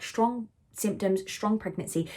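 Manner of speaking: a lightly voiced mantra to calm herself; reciting a mantra. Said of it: "That was the mantra I was putting to myself".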